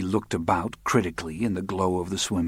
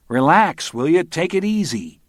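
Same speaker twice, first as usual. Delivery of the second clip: urgent calling; 9 semitones higher, 6 dB louder than usual. Acted. Calling to man drowning in pool.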